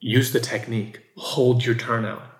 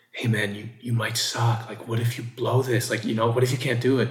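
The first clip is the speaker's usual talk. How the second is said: put-on whisper with a mock doubtful tone. Retelling the inner voice of doubt before a show: imitating a whispering inner voice. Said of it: "kind of whispering".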